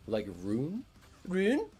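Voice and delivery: "rune" with a questioning rise; imagined pronunciation. Retold or imitated. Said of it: "imagine that they're pronouncing".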